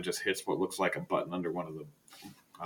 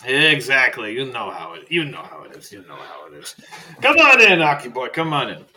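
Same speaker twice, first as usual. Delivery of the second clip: put-on higher, louder old man beckoning; Faust inviting in; 3 semitones higher, 10 dB louder than usual. Librarian ushering Archibald in, eager old man. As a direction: wave him inside, eager.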